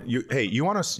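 usual speaking voice

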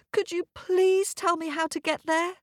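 put-on high, polite pleading girl; eager girl. Girl begging the North Wind for directions, high and eager. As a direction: ask sweetly and hopefully.

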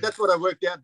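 put-on fading French accent. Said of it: "give me the French accent".

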